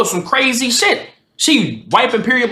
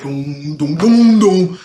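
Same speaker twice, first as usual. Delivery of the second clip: thud out each doom separately; imitated thudding; 4 semitones lower, much slower than usual. Storyteller imitates the shaking bunk bed, thudding dooms. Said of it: "He got that like".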